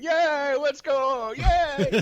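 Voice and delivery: high-pitched, loud mock cheerleading; excited cheering. Medium imitates their spirit guides cheering them on, excited high cheer. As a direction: cheer like a flag-waving fan jumping up and down. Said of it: "jumping up and down, like, waving the flag".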